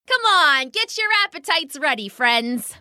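high, eager bird rallying friends; rallying pheasant. Acted.

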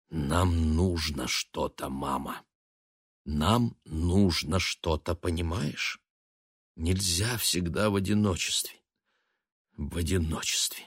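тихо и медленно, сдерживая бешенство; говори тихо, пряча ярость; тихим голосом. A narrator's reading. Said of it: "заговорил тихим голосом". (сын тихо умоляет мать, тихим сдавленным голосом)

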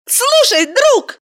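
put-on woman yelling at her boyfriend's caller; shouted. A narrator's reading. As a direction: yell it at him. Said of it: "прокричала она в трубку".

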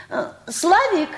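drawn-out call across the yard. Acted. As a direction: call the boy from the house. Calling the boy from afar. (протяжно зовёт)

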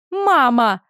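a hurt wail to her mother; sobbing cry. A narrator's reading. Humiliated daughter sobs to her mother, choked cry. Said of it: "всхлипнула Энейда".

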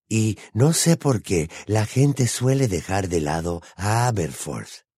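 slow, lightly voiced old man; lightly acted elderly friend reminiscing; old wizard Dodge, wistful. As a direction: speak with slow, emphatic pauses.

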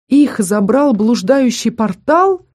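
dragging out the horror of портал; stunned question. Acted. Girl asks the king in shock, stunned and slow.

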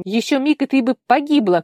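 high, loud agitated scolding; shaken scolding. Acted. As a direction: scold her, still shaken. Tigir scolding her, shaken. (взволнованный упрёк)

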